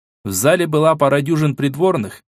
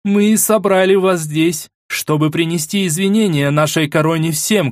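loud strong voice; 5 semitones higher than usual. Acted. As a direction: proclaim it to the whole hall. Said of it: "проговорила громким сильным голосом".

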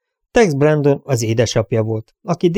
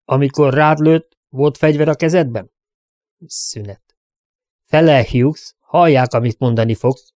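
a lawman pressing for a straight answer, a touch raised; stern sheriff questioning; 4 semitones higher, 3 dB louder than usual. Acted. Sheriff grilling the crowd about who drew first, stern. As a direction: demand the truth like a sheriff at a hearing.

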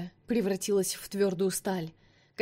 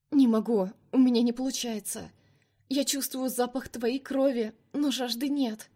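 strained, gasping plea, higher; moaning; 4 semitones higher than usual. Acted. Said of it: "простонала девушка".

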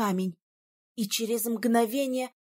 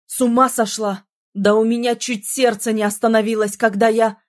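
angry shout; 2 semitones lower, 8 dB louder than usual. A narrator's reading. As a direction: yell after nearly losing her. Prince yells in fear. (громко, сердито, с испугом)

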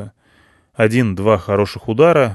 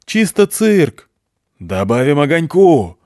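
excited shout; 5 semitones higher, 5 dB louder, slower than usual. A narrator's reading. Major shouting over engine.

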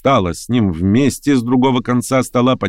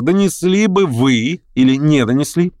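higher, pointed question; continued questioning; 7 semitones higher than usual. A narrator's reading. Verkhovensky turns to the major, questioning pointedly. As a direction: put the question pointedly, less cried out. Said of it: "продолжал Верховенский".

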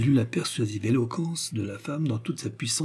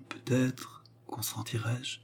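slow teasing whisper; 9 dB quieter, slower than usual. A narrator's reading. Turquoise teasing Fernand, slow whisper. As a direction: breathe it out slowly, no voice. Coquette teasing her lover.

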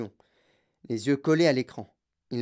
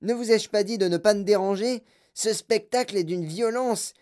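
put-on loud, high irritated kid; angry boy shouting; 4 semitones higher, 3 dB louder than usual. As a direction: yell at the reporters. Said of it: "hurlait-il".

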